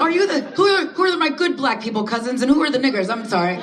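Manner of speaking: high, laughing mock question to the cousins; laughing mock outrage. Teasing her cousins at the family reunion, laughing and high. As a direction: pitch it up high and laughing, half in disbelief.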